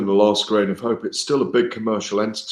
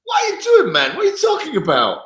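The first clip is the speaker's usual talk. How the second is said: put-on high, loud Jamaican-accented outburst; 5 dB louder than usual. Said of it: "is that your Jamaican accent".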